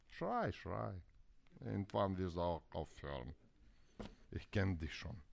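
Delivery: low, soft muttered indifference; quietly wait out the shouting; acted spouse tuning the other out; resigned dismissal. Silent spouse's thoughts during partner's shouting.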